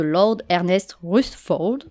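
a light put-on English accent on the name. Lecturer giving a physicist's name a mock English accent. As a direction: say Lord Ernest Rutherford with a hint of an English accent. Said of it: "désolé encore une fois pour mon accent".

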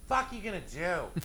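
retold taunt. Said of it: "be like".

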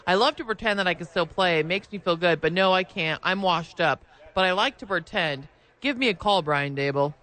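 light take on Gronkowski's voice with a push on sentence ends; hint of Gronkowski, lightly voiced; Rob Gronkowski impression. Imitating Gronkowski for co-hosts, lightly voiced. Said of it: "you kinda sound like Rob Gronkowski".

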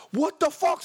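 high-pitched retold exclamation; exasperated yelp; incredulous. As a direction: act out baffled disbelief. Reacting to driver's lawyer boast.

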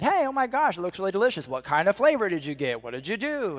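high, sing-song friendly greeting; over-friendly gushing. Retold or imitated. Cheery dad chatting to kids at the ice cream place, over-friendly gushing. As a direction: gush with swooping pitch.

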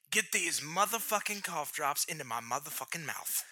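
soft mock movie-tough-guy line; hushed, half-hearted celebrity impression; Samuel L. Jackson. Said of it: "I sound like Samuel L. Jackson".

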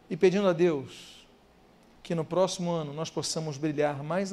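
soft, low prayer voice, unhurried; closing prayer. Acted. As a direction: lead the church gently into prayer. (voz baixa e suave de oração)

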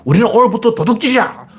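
high, rousing boss's command; mock proclamation to the troops; boss proclaiming. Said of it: "왕이, 보스가".

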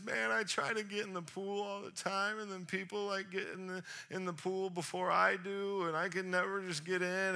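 hammed-up self-pitying grumble; whining. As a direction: whine out your excuses. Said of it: "he starts whining".

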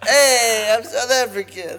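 over-the-top South African impression; bad South African accent. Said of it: "Bad accents dot com".

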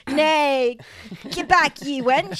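lightly voiced medieval man; a hint of a scornful medieval smith; gruff medieval blacksmith. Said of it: "male blacksmiths would be like".

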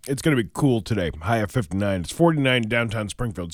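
talking with mouth full. Real, not acted. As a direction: weather read through a bite of cheesecake. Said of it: "eating up my bourbon brulee cheesecake".

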